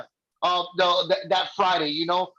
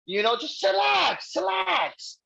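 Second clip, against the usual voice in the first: drawn-out chill advice; 8 semitones higher, slower than usual. Retold or imitated. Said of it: "I'm like".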